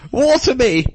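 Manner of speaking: high, loud pleading squeal; hammed-up cartoon plea; posh cabbage. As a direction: beg like a tiny posh plant. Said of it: "Why have I got all posh".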